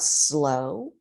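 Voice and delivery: "slow." stretched out long; drawn-out slow. Shown as a demonstration. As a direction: draw out the word "slow.". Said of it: "changing up your speed".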